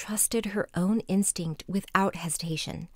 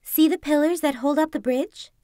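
fox voice; 5 semitones higher, 4 dB louder than usual. Acted. Fox asks Kuzma.

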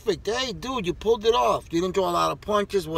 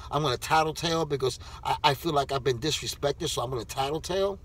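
put-on softer, fast childish snitch voice; mock tattletale; 6 semitones lower, 4 dB quieter, faster than usual. Mocking the fighter as a snitch in a soft, fast childish voice. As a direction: sneer it like a tattling kid.

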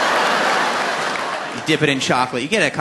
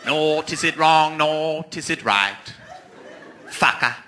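slow, grand verse recital; hammed-up Elizabethan recital ending in a swear; mock Shakespeare; much slower than usual. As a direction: recite it like a pompous stage actor. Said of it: "he'd have lines like".

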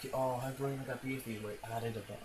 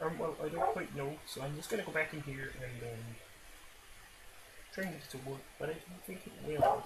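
put-on Australian accent; 6 semitones higher than usual. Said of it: "like an Australian person".

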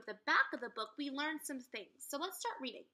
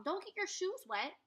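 mom calling; 8 semitones higher than usual. Acted.

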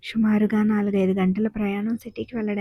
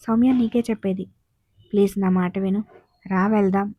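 gently coaxing her to come along; pleading. Acted. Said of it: "అన్నాడు ప్లీజింగ్గా". (బతిమాలుతూ)

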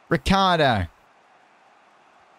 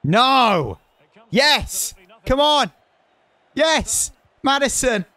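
very high, loud cries as the move builds; willing the ball in, breathless; frantic excitement; 12 semitones higher, 3 dB louder, slower than usual. Real, not acted. Gamer roaring his players on for a late goal, very high frantic cries.

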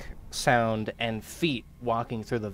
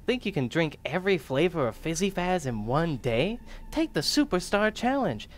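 put-on hyped kids' ad, higher; ad announcer; 4 semitones higher than usual. Gamer reading a soda ad as a hyped announcer. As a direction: sell it like a cheesy commercial.

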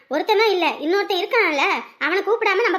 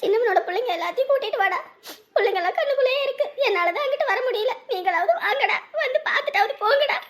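tearful; 2 semitones higher than usual. Acted. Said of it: "நீ அழாத".

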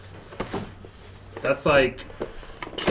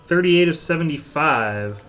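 loud number callout; announcer callout; 3 semitones higher, 6 dB louder than usual. Real, not acted. Card breaker announcing a card's serial number, loud callout. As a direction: call the numbering out big to the room. Calls out number, then repeats quietly.

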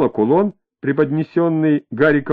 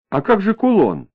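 anxious, higher-pitched question; uneasy, pitched-up query; worried; 7 semitones higher than usual. A narrator's reading. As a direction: ask with rising concern. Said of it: "обеспокоенно спросила Лариса".

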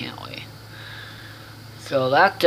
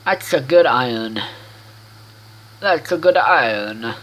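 half-hearted attempt at an Italian accent; a badly faked hint of Italian; failed Italian accent. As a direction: try an Italian accent and botch it. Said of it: "trying to do an Italian accent".

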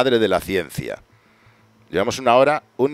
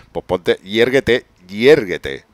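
yérguete said slow and loud as an order; commanding word; 2 semitones higher, 6 dB louder, much slower than usual. Shown as a demonstration. Trying out yérguete as a command, slow and loud. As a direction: bark yérguete slowly like a command. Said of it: "molaría llamarle a un perro".

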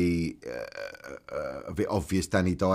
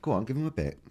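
higher, tentative copy of Rotherham accent; Rotherham accent attempt; 6 semitones higher than usual. Shown as a demonstration. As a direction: echo the line in attempted Rotherham. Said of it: "do a Rotherham accent".

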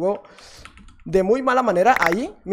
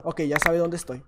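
normal talking voice

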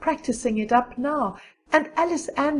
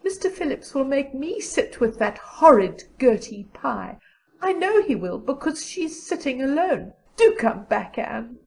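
high, plaintive friend's voice; distressed girl pleading, pitched up; near-tearful Diana; 3 semitones higher than usual. A narrator's reading. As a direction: plead as if ready to cry. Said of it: "looked as if she were ready to cry".

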